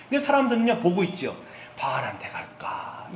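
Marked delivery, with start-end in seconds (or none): 1.8-3.1 low, soft and slow wavering; hesitant. Retold or imitated. People torn between Baal and the Lord, hesitant. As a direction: imitate someone dithering, drawn out and hushed. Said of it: "이렇게 머뭇머뭇거리고 있는 거예요".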